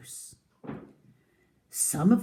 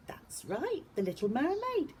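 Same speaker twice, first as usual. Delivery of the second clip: whisper; 10 semitones higher, 6 dB quieter than usual. Acted. Teacher whispers to class.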